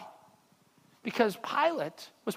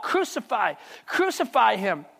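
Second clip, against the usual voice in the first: crowd crying out. Acted. Preacher voicing the priests crying out for crucifixion, slow and insistent. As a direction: let the crowd's cry land slowly. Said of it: "they cried out".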